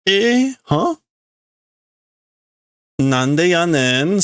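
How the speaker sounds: surprised retort. Acted. Character reacts with Osaka retort.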